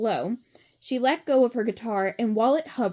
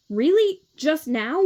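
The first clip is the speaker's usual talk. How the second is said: surprised; 5 semitones higher, 5 dB louder, slower than usual. A narrator's reading. Surprised reaction in story.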